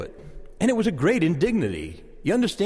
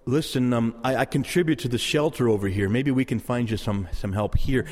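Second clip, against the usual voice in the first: lower, tentative, kindly voice; gentle offer; 6 semitones lower than usual. Acted. Passer-by pointing a beggar toward shelter, gentle and helpful. Models a kind answer to beggar.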